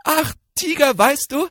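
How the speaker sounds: bold call. Acted. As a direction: call out boldly to scare the tiger. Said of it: "und dann rief es". (lauter, hoher Ruf des Hirschleins)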